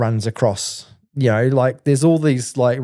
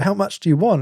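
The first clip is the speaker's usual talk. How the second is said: much higher mock voice; street dealer; 9 semitones higher than usual. Camo guy asking how much weed he wants, in a high mock voice. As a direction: toss the question up high and casual.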